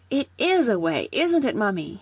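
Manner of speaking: put-on high, excited boy's discovery; excited cry. A narrator's reading. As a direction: burst out with a sudden idea. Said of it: "he cried".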